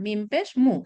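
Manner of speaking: মু said short and crisp, no stretching; quick unstretched মু; short vowel demo. Shown as a demonstration. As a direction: clip the vowel in মু right off. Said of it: "একটু টেনে বলছি না".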